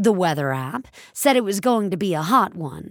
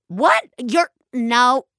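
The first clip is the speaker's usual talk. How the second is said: higher, louder sudden surprise; startled; 5 semitones higher, 5 dB louder, slower than usual. A narrator's reading. Ellen startled when the teller says he's real. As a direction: caught off guard.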